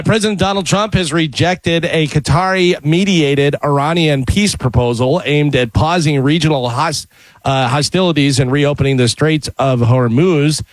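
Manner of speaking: measured newscast delivery; news read. Acted. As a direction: read it as a radio news bulletin. Reads the news bulletin.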